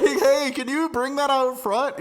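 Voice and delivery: slow, high, loud mock holler; retold yell. Customer calling to unseen staff out back, mock yell. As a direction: call out loudly to someone out back. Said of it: "yell into the back and be like".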